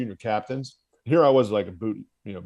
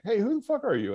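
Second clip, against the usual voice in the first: mock angry instructor; 11 semitones higher than usual. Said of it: "and he's like".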